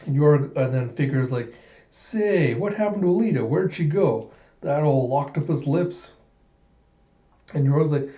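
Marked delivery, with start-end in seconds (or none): 1.9-6.1 put-on higher curious young man. Young man voiced in recap.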